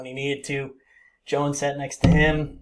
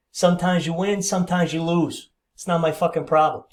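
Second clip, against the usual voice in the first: louder, higher imitation of an irate boss; retold brusque dismissal; 4 semitones higher, 6 dB louder than usual. Boss waving off a waiter's complaint, retold brusque dismissal. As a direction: brush the complaint off, loud and raised.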